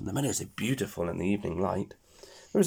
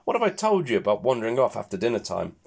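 high fussing mother pig; scolding mum; 4 semitones higher than usual. Acted. Mother pig scolds her piglet up a tree, high fussing yelp. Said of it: "yelps Mummy Pig".

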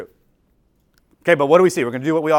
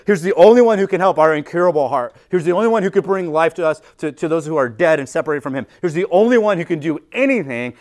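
louder, driving pulpit build; rising sermon intensity; preaching emphasis; 2 semitones higher, 6 dB louder than usual. Acted. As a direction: hammer home the only one.

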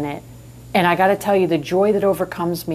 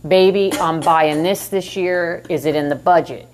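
good little wifey. Retold or imitated. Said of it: "like a good little wifey".

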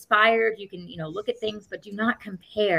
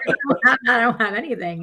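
words through real laughter, higher; laughing; 5 semitones higher, 4 dB louder, faster than usual. Real, not acted. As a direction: laugh it out as you admit it. Laughing while admitting it.

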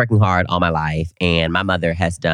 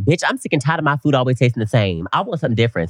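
higher, exasperated rant; fed up; 6 semitones higher, 3 dB louder, faster than usual. Retold or imitated. Speaker retells being sick of bland food, fed-up rant. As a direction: play up being sick and tired.

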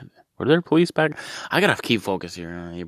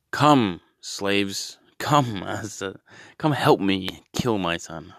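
mock Abraham calling; 3 semitones higher, much slower than usual. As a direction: summon the slaves like a cheery master. Abraham calls his slaves.

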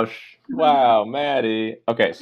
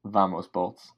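quiet cheer; 2 semitones lower, 6 dB quieter, slower than usual. Acted. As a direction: say it under your breath. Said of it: "repeating the cheer quietly first".

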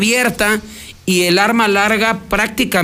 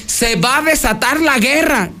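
higher-pitched mild mock yell; retold shout; 5 semitones higher than usual. Reporter quoting the woman's cry, mild mock shout. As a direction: imitate her cry without full volume. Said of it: "que ella gritó".

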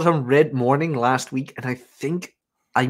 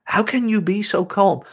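gasp, then higher incredulous imitation; mock disbelief; 6 semitones higher than usual. Shocked coworker questioning his calm, mock disbelief. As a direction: imitate someone aghast at calm. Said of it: "she just looked at me like".

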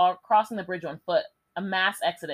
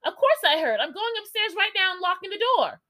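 hint of a worried older woman, higher; lightly voiced older woman; 11 semitones higher than usual. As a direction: lightly play the anxious lady on the phone. Reading woman's phone quote.

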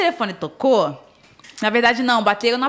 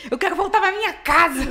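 laughing, mock upset; 7 semitones higher, 3 dB louder than usual. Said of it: "tu viu como eu tava muito chateada?".

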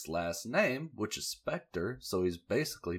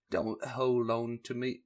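put-on vague accent for Layla; 4 semitones higher than usual. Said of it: "No, wait. I can't remember if she has an accent".

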